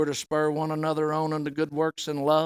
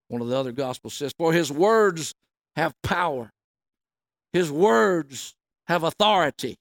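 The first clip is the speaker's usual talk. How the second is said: measured reading of the Gospel, raised for the quotes; scripture reading. Acted. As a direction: read the passage aloud to the church. Reading scripture aloud to congregation.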